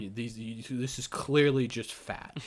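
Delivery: low, hushed mock paramedic; matter-of-fact EMT. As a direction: imitate an EMT stating it, low and soft. Acting EMTs correcting her.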